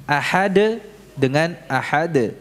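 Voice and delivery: slow ahad, first with D then with dal; wrong then right dal. Shown as a demonstration. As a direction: contrast both endings of ahad slowly. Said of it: "simak baik-baik". (ahad dengan D lalu dengan dal, pelan)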